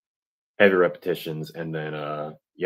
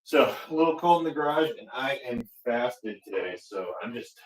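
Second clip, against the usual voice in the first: shivering. Real, not acted. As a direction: voice shaky from the cold. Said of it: "if my voice sounds a little shivery".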